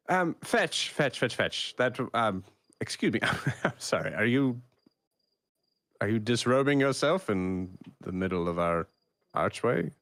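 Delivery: a scandalised hostess catching a guest undressing; woman of the house. Acted. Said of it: "You see a woman approaching".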